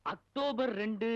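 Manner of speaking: drawn out. Acted. Student stalling, drawn out.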